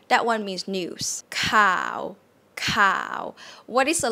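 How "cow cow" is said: "cow" starting low and sinking. Shown as a demonstration. Teacher models the Thai low tone, sinking "cow". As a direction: let "cow" drop lower and lower, drawn out. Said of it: "you go low".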